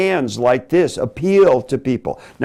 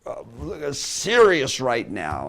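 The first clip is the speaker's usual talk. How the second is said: demonstrating intense seriousness, much softer; intense and serious; 5 semitones lower, 8 dB quieter than usual. Shown as a demonstration. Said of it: "looking very, very intense".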